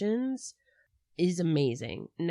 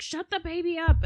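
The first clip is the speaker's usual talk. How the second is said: high, louder imitation of a panicky man snapping; mock panicked snap; 10 semitones higher, 6 dB louder than usual. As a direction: bark it like a frazzled jerk. Castro panicking at crying baby.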